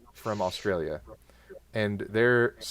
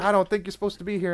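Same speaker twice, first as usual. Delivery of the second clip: British guard; 8 semitones higher, faster than usual. Retold or imitated. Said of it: "and he's like".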